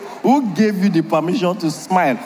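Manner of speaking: laughing mock accusation. Jealous wife voiced, laughing.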